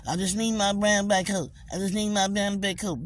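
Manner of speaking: mock plea.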